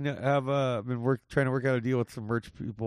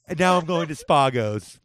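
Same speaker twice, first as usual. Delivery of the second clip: pretentious yuppie. Acted. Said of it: "pretentious Spago yuppies".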